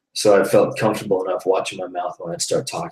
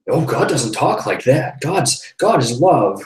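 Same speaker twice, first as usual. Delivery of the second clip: imitating her high voice; 6 semitones higher, 4 dB louder, slower than usual. Woman correcting him.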